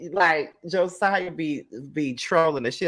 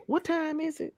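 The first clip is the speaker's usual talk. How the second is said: high, softer imitation in a Mississippi accent; playful Mississippi-accent impression; Latrice; 13 semitones higher, 7 dB quieter than usual. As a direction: mimic a Mississippi accent, pitched way up. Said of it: "so damn tickled when Latrice".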